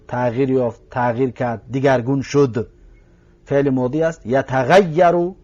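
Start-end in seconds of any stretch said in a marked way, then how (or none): 4.3-5.3 یتغیرو drawn out slowly, each syllable separate; slow Arabic verb. Shown as a demonstration. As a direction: spell out یتغیرو slowly for students. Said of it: "فعل مضارعش". (یتغیرو را آهسته و کشیده بگو)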